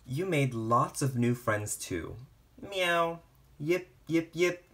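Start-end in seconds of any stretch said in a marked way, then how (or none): 2.7-3.2 a higher little meow; storybook kitten meow. Acted. Kitten meows in picture book. 3.6-4.6 higher little yaps; playful puppy yips. Acted. Puppies yip in picture book.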